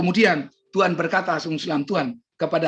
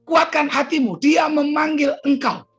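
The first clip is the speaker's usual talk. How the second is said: higher, slow proclamation; rousing encouragement; 6 semitones higher, 4 dB louder than usual. Retold or imitated. Disciples heartening the blind man, raised rousing call. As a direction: lift the pitch and rally him. Followers' words repeated more urgently.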